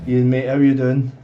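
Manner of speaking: loud, slow friendly call; calling out hello. Real, not acted. Driver greeting passenger Ian, slow loud call. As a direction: hail him across the bus.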